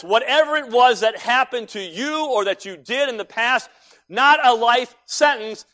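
loud, emphatic sermon delivery; fired-up preaching. Real, not acted. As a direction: drive each point home like a preacher. Preaches at full force.

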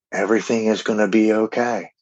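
lightly soothing, like a gentle reassuring woman; calming woman's voice. Retold or imitated. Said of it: "I hear this calming woman's voice".

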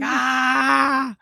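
high shouted ah; dad's gleeful yell. Retold or imitated. Dad driving into the tornado, high mock shout. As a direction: whoop at the storm. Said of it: "He's like".

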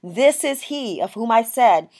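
loud proclamation. Retold or imitated. John the Baptist as Jesus comes up to him, loud proclamation. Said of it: "he says loudly, John says loudly".

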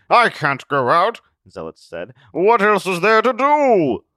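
high, loud, anguished recluse; despairing hermit voice. Acted. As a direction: plead it, lost and afraid. Zealot's voice.

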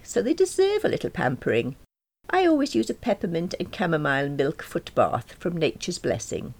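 high, prim character voice; lightly voiced self-satisfied woman; self-important Jane. Voices Jane boasting of her foot bath.

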